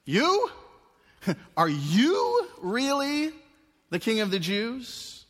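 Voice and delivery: high, loud, slow laughing disbelief; incredulous Pilate. Acted. Pilate facing the carpenter's son, mocking disbelief. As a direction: scoff at this lowly carpenter. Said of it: "It reads as if Pilate's saying".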